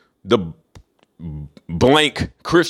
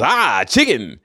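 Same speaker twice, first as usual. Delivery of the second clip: a hammed-up caricature shout of the word chicken; minstrel caricature; much slower than usual. Mocking the coon on TV with a hammed-up caricature cry. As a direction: spike the pitch and sell it like a TV minstrel. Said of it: "put some coon on T V".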